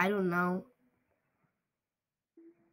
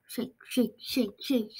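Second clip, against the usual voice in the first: whispering; 4 dB quieter, slower than usual. Real, not acted. Sneaking past an enemy.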